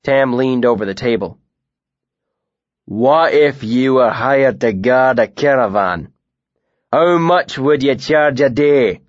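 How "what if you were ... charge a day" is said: a big bearded man feigning friendliness; lightly voiced northern bully; Tam, northern brute.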